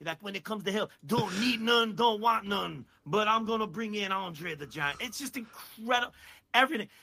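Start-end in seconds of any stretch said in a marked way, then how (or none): 0.2-5.0 lightly imitated wrestling promo; a hint of a defiant wrestler's promo; Dusty Rhodes. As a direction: deliver it as a wrestler's vow. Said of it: "And Dusty's like".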